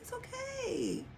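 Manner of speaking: rock yourself gently with the words; soft self-comfort. Retold or imitated. Reassuring herself that partner will return, soft and quiet. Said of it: "comforting myself".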